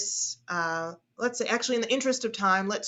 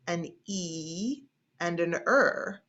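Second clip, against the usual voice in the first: normal talking voice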